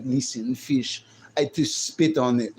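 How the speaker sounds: imitated Russian woman; mock Russian accent. Streamer imitating Russian women for chat, mock Russian accent. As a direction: give orders in a put-on Russian accent. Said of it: "Russian chicks, man, they be like".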